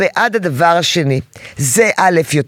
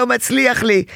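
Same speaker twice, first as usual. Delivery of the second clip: put-on whiny child; 5 semitones higher than usual. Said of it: "ואז הוא יתבכיין ויגיד".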